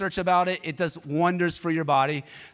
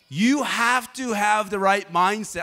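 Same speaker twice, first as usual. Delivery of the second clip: intense; 4 semitones higher, 4 dB louder, slower than usual. Retold or imitated. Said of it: "I was very intense".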